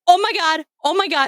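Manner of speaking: high, frantic mock panic; panicking. Teen panics to family about horror movie, high mock panic. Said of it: "My response was to panic".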